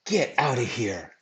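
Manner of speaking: playful disbelief take; disbelieving get out of here. Shown as a demonstration. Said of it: "Or I could say".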